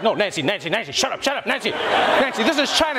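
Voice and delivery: put-on hushed, frantic, half-laughing boyfriend; pleading boyfriend. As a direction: try to shush her before it escalates. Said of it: "And the boyfriend's like".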